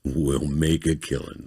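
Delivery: slow, drawn-out deep voice; slow, lightly deepened croon; deep romance voice. Acted. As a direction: draw it out like a romance-book narrator. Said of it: "in that deep, like goddamn voice".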